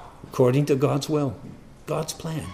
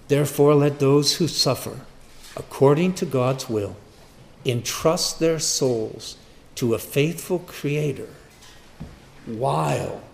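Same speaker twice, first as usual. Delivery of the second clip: measured, firm pulpit reading; scripture reading; 2 semitones higher, 4 dB louder than usual. Acted. Preacher reading the verse to his listeners, declaimed scripture. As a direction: read the verse out firmly to the congregation.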